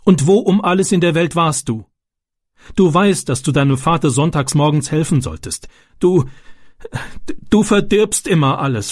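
a hint of a frazzled mother telling off her son; upset mother.

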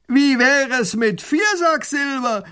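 high, very loud slow bawl; rowdy bandit bellow; robber bawling. Acted. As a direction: bellow the offer across the river. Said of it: "grölt der Räuber herüber".

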